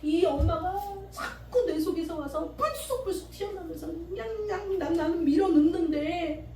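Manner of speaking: a believer pouring out resentment to God; acted prayer. Believer praying about her mother, pleading then fuming. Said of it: "기도를 통해서 용서를 해봐요".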